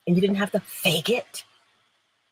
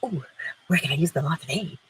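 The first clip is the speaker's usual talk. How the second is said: eager mock glee; 5 semitones lower, faster than usual. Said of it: "you rub your hands together and you go".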